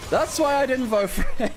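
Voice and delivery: vindicated shout. Real, not acted. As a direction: call it out in triumph.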